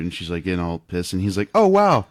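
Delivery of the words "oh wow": mock flirt. The speaker as Han Solo.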